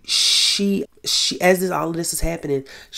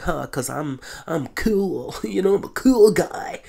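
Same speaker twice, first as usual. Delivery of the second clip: laughing it off; 2 semitones higher than usual. Retold or imitated. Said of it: "just kinda laughs it off".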